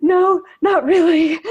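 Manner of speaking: mock tearful. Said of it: "with these big tear-stained cheeks and sad, sad brown eyes and said".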